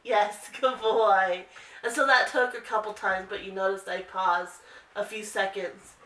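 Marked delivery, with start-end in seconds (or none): 0.0-1.4 slow praise. Real, not acted. Praising dog after he responds.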